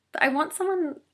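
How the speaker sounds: sudden eager high outburst; excited burst. Real, not acted. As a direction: jump up in pitch, keen. Excited outburst about foodies.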